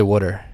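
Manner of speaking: water with a short "wood" vowel, "wooder"; Philadelphia pronunciation. Shown as a demonstration. Host denying he says water the Philly way, "wooder" pronunciation. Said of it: "I don't say water".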